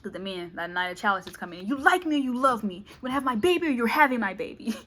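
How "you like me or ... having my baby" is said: lightly voiced pushy suitor; loud joking ultimatum; cocky man.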